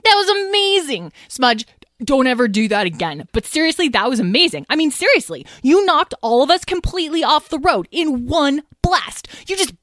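excited gushing. A narrator's reading. Lyle raving about the crash.

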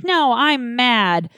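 slow pouty no, dragging it out; sulky, drawn out. Retold or imitated. Refusing her mom's call on the fourth, slow sulky voice. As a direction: sulk like a grouchy kid.

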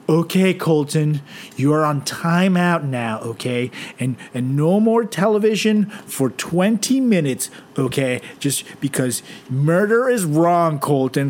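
put-on slow, gentle scolding of a spoiled kid; hammed-up permissive parent. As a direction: talk down sweetly like a permissive parent.

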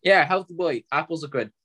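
chewing while talking; mouth full. Real, not acted. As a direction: talk round a bite of apple. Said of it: "I'm eating an apple".

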